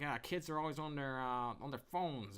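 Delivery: lightly voiced old man, slowing on the end; a hint of a creaky old man. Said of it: "like, old voice".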